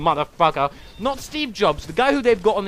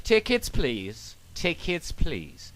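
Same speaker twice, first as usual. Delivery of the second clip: mock conductor call; 3 semitones lower, 5 dB quieter, much slower than usual. Conductor walking the aisle.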